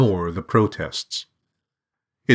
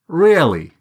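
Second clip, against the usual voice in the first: high, louder doubting question, swooping down; skeptical policeman; 9 semitones higher, 5 dB louder than usual. A narrator's reading. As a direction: challenge his story with open disbelief. Policeman doubts the student's story.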